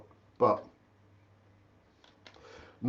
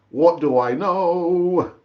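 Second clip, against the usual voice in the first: what do I know said slowly and louder; slow emphatic; 2 semitones higher, 5 dB louder, much slower than usual. Shown as a demonstration. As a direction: draw out the shrug, drawn-out and resigned.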